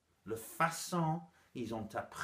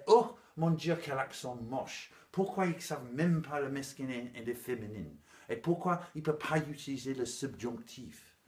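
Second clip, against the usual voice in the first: lightly acted appalled listener; hammed-up fussy critic; mock dismay; 3 semitones higher, 4 dB louder than usual. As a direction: open on a loud mock gasp of horror, then complain. Mock listener appalled by her accent.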